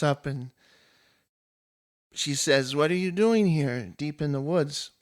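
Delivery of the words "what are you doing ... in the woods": coy question with DOING lifted; lightly voiced coy nymph. Nymph coyly greets the warrior in the woods, lightly coy. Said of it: "she kinda coyly walks into the light".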